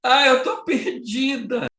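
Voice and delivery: put-on high, slow, half-laughing, half-crying old woman; whimpering old lady. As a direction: whine it like a lost old lady near tears. Velha perdida no aeroporto. (senhora idosa choramingando, alta e lenta)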